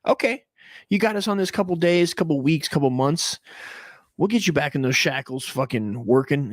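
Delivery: a high, sneering mock of a slave owner; sing-song taunting, like a cocky master; smug plantation owner mock. Slave owner taunting the rebels, high mocking sneer. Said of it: "they just go".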